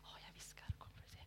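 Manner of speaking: a tiny ear whisper. Real, not acted. Leader whispering the line into a child's ear. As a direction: whisper right into her ear. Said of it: "Eller ska jag viska i ditt öra?".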